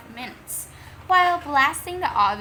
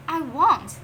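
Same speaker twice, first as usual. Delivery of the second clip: sharp, louder refusal; defiant refusal; 4 semitones higher, 7 dB louder than usual. Acted. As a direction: dig in with a loud no. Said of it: "said Peter".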